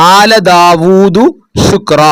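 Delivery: very slow drawn recitation; Quran recitation. Shown as a demonstration. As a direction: stretch each vowel in recitation.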